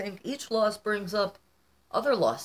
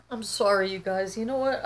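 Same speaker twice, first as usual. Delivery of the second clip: real tears in a raised voice; tearful; 3 semitones higher than usual. Real, not acted. Vlogger apologizing to viewers for crying, tearful. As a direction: apologize while fighting back tears. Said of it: "I'm gonna cry again".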